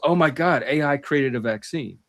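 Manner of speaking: lightly imitated excited believer; a touch of put-on amazement; mock excitement. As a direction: quote a gullible believer's excitement, mildly. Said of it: "naturally get excited and go".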